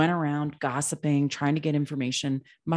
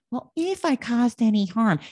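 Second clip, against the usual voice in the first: fake apology; 7 semitones higher, 4 dB louder than usual. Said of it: "I hate when people apologize, like".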